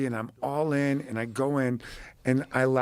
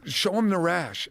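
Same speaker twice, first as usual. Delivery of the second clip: higher, slow, eager stranger; lightly voiced pushy fan on a plane; mock eager fan; 5 semitones higher, slower than usual. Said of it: "He's like".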